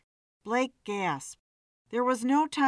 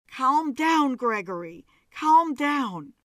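urgent calming; 3 semitones higher, 5 dB louder than usual. Acted. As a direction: loudly soothe a panicking husband. Joan calming screaming husband.

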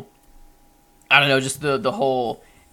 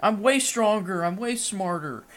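much higher, louder petulant tantrum; whiny Ultron impression; 10 semitones higher, 7 dB louder than usual. Podcaster mocks Ultron whining about Tony in a high bratty voice. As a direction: sulk like a bratty kid who hates his dad. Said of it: "He's like".

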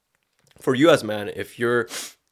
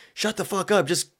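shouting orders at a woman, higher and louder; mock bossy rich guy; 5 semitones higher, 7 dB louder than usual. Rich man ordering his woman to the kitchen, mock rude yell. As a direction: bark it like an entitled boss. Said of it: "he's like".

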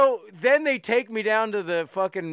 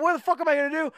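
higher-pitched exasperated retelling; pissed off; 9 semitones higher, much faster than usual. Retold or imitated. Naked guy stranded after a failed desk call, pissed off. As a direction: act out being fed up, voice jumping up. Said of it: "I'm all pissed off".

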